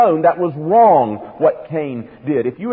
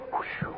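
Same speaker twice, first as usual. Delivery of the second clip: mock whew; 15 dB quieter than usual. Reaction to reading through Leviticus.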